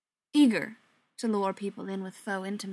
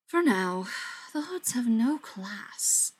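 put-upon sigh; slower than usual. Acted. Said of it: "Beckett sighed, extremely put upon".

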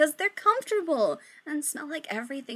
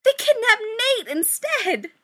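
dramatic reveal; 12 semitones higher, 8 dB louder, slower than usual. Shown as a demonstration. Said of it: "It's getting d".

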